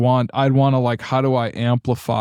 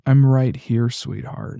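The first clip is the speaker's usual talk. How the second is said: tender. Retold or imitated. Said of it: "almost like I would touch a lover".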